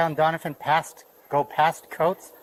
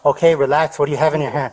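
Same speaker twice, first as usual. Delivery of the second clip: urgent command; 6 dB louder than usual. Real, not acted. Officer in armed standoff.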